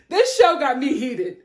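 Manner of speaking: laughing, heated. Real, not acted. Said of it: "repeated line".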